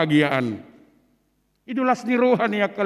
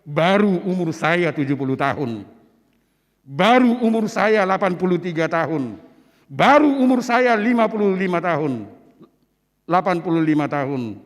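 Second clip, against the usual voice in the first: firm declaration; 3 semitones lower than usual. Shown as a demonstration. Pastor showing elders how to state their age firmly. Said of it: "dok ma dengan tegas".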